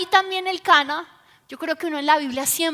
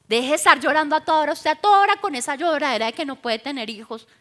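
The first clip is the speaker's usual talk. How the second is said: rapid-fire mock nagging; imitating impatient scolding; much faster than usual. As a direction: scold in a fast, exasperated rush. Negated example of an impatient husband.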